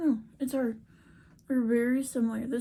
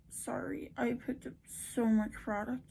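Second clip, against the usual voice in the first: whispering; 7 dB quieter than usual. Real, not acted. Whispered aside while applying.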